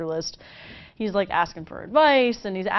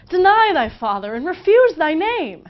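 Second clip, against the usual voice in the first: high, loud, swooning Juliet; Juliet pining; 8 semitones higher, 7 dB louder than usual. Acted. Juliet at her window calling for Romeo, high and loud. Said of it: "moaning on about how Romeo's a Montague".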